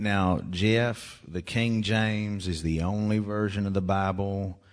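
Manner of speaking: slow drawled imitation of mom's accent; mom's accent, imitated. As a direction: put on mom's accent, unhurried. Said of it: "I can do this accent".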